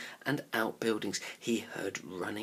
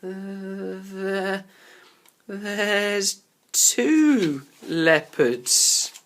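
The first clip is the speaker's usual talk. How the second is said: shaky whisper; 8 semitones higher, 8 dB louder, much slower than usual. A narrator's reading. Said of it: "gave a shaky whisper".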